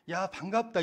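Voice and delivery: put-on high, loud happy hail to an old friend; mock cheerful shout of recognition; old classmate greeting him with joy; glad greeting. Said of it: "이 소리가 들리는 거예요".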